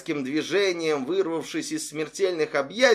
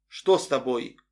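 trembling voice; 3 semitones lower than usual. Acted. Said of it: "дрожащим голосом спросила она".

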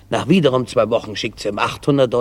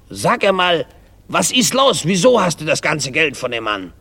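higher, indignant questioning; 4 semitones higher than usual. Acted. Husband demands why she got money from the man, indignant. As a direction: press for an explanation in outrage. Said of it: "Er ist sichtlich empört".

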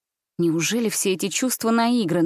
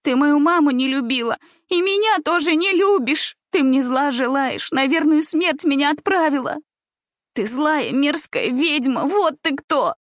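much higher and louder, tearful rage; furious accusation; 7 semitones higher, 3 dB louder than usual. Acted. Gulya screaming at grandmother that she is a witch, furious. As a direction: scream it at her, voice cracking high.

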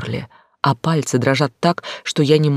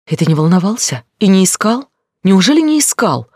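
rising, louder anguished pleading; moaned plea; 6 semitones higher, 5 dB louder than usual. Acted. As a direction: wail it, desperate for an answer. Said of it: "простонала я в трубку".

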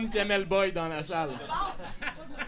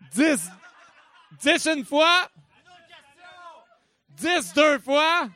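auctioneer; 2 semitones higher, slower than usual. Acted. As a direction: call the bids like an auctioneer. Charity auction, calling bids.

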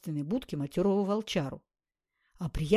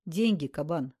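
холодно; 2 semitones lower than usual. Acted. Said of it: "холодно бросил он".

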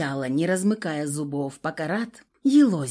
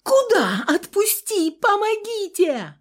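panicked scream; 13 semitones higher, 5 dB louder than usual. A narrator's reading. Heroine screams as friend taken.

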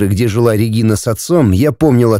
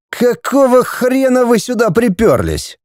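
much higher, outraged snarl; angry young man bark; 11 semitones higher than usual. Acted. Andrei barks at the men who burst into his flat, high and outraged. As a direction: bark it at the intruders. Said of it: "рявкнул Андрей".

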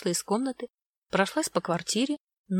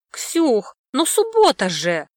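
loud, higher, slow whiny protest; indignant protest; 5 semitones higher, 7 dB louder, much slower than usual. Acted. Brother protesting to his sister, loud and indignant. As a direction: object like a kid defending his weekend. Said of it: "возмутился Лёшка".

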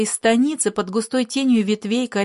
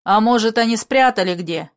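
louder shouted question; shouted reply; 4 dB louder than usual. Acted. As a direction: call it out over the noise. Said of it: "крикнули в ответ ещё громче".

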